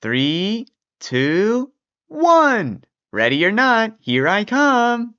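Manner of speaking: put-on high, excited old man. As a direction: call it out high and eager. Old man playing hide and seek.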